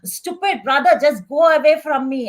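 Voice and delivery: loud, snapping at her brother; loud irritable teen in pain; abusive outburst. Acted. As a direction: shove him off with a loud snap. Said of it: "she's so abusive".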